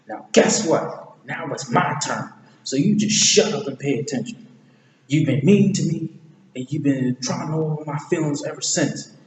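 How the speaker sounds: mildly heated mock quarrel; acted indignation. Retelling Donkey confronting Shrek, acted indignation.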